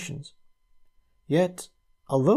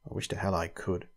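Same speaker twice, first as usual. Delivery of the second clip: softer, low muttered grumble; muttering; 4 semitones lower, 8 dB quieter than usual. A narrator's reading. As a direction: mutter it under your breath. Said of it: "Thornton muttered".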